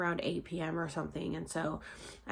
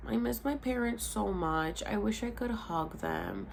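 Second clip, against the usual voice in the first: slow, higher, tearful voice; a choked-up retelling of missing her parents; a touch of remembered crying; tearful longing; 4 semitones higher, slower than usual. Retold or imitated. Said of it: "like, crying".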